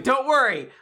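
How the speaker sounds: high start, drawn-out finish; mock reassurance. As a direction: announce it like a convenient hero's boast. Mimics every character's convenient boast.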